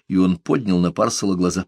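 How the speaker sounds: plain reading voice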